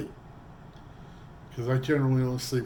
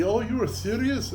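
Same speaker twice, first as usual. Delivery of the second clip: surprised disbelief; 12 semitones higher, 4 dB louder than usual. Retold or imitated. Roommate surprised he's really moving.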